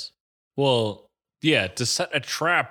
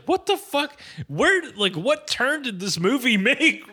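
a burst of amazed disbelief, pitched way up; 10 semitones higher than usual. Retold or imitated. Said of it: "I was like".

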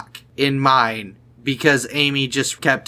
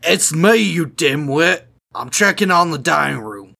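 guard's voice. Acted. Guard bluffing about stealing food, lightly put-on guard voice. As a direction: play a guard explaining himself. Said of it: "do you remember what the guard's voice is".

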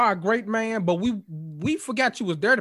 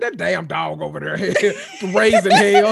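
laughing grumble; 4 dB louder than usual. Retold or imitated. Grumbling about the dog.

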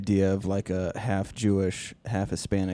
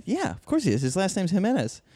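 retelling own surprise; 9 semitones higher than usual. Retold or imitated. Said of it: "And I go".

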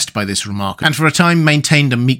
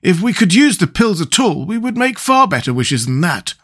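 higher-pitched, sharp rebuke; 7 semitones higher than usual. A narrator's reading. Scarecrow dismisses Jack's wish as nonsense, sharply. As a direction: scold mildly in a raised voice. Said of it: "said the Scarecrow sharply".

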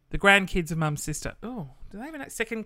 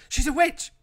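high, loud, hammed-up accusation; playfully shrieking she's a witch; mock witch-hunt cry; 10 semitones higher, 6 dB louder than usual.

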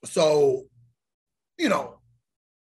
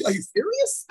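exasperated; 9 semitones higher than usual. Retold or imitated. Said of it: "I go, like".

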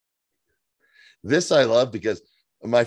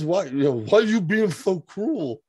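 playing Nate; 7 semitones higher than usual. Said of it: "Nate says".

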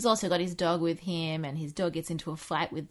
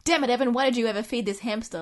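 mock teacher; 4 semitones higher, 4 dB louder than usual. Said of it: "He's like".

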